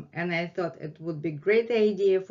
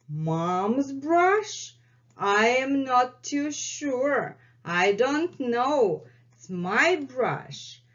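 higher teasing question and stubborn answer; playful cat voice; 4 semitones higher, slower than usual. Pretend. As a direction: play the cat denying it, higher. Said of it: "English version of acted dialogue".

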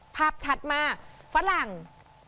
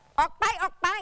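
mock shout; 4 semitones higher, slower than usual. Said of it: "ชี้หน้าบอก".

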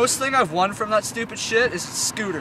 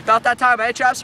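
lightly put-on British chap; British accent; 3 semitones higher, 6 dB louder than usual. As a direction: give the seagull a jaunty British accent. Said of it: "I gave him a British accent".

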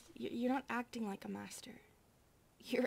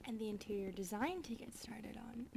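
hushed whisper; 5 dB quieter than usual. Acted. Maid telling her sister to get up and work, whispered. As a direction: murmur that it's time for work.

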